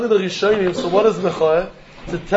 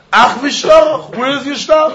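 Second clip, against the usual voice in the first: a light mock creditor, higher and slow; challenging creditor; 5 semitones higher, slower than usual. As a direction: challenge him as the lender demanding proof.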